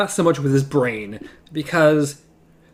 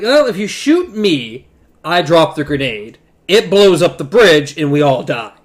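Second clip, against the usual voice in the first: loud threat; 6 dB louder than usual. Retold or imitated. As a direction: bellow it down the bridge. Voicing the pirate's threat.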